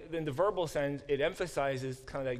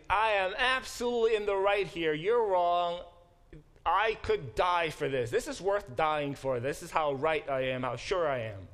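louder, higher, insistent and self-righteous; indignant Jonah; 3 semitones higher, 4 dB louder than usual. Retold or imitated. Teacher playing Jonah insisting to God, loud and indignant. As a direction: Jonah digs in, sure he is right. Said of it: "It is".

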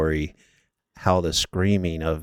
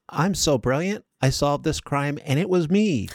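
smug, much higher French detective voice; a pompous French Sherlock, higher and preening; French accent; 8 semitones higher than usual. Retold or imitated. Friend mocks a French Sherlock Holmes, in a high, smug French accent. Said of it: "That's my French accent".

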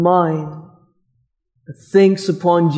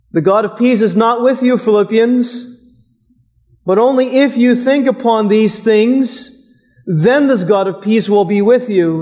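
raised, higher mock of a false teaching; mock wrong reading; 5 semitones higher than usual. Preacher voicing a false reading of the text, mock insistent. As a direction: voice the misreading a little pitched up. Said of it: "This text is not saying".

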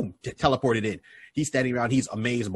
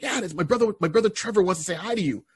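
higher casual cousin voice; Grantley on phone; 7 semitones higher than usual. Retold or imitated. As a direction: hand over the phone, voice pitched up. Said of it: "Grantley's like".

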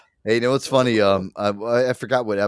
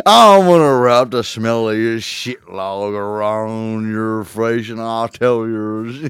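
very slow, put-on character voice; hammy mock threat; 5 dB louder, much slower than usual. Host parodying the Yule log threat, slow mock drawl. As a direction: drag each word out in a mocking imitation.

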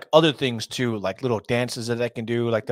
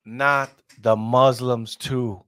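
mock dismay; 4 dB louder, much slower than usual. Real, not acted. Mock dismay at trend spreading.

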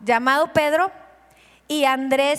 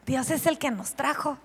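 soft emphasis; 7 dB quieter than usual. Shown as a demonstration.

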